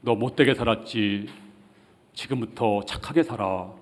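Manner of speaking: softly voiced mock counsel, gently urging; quiet persuasion. Preacher acting persuasion Jesus did not use, quiet persuasion. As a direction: coax a wrongdoer in a subdued voice. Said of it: "주님이 설득하지 않았습니다".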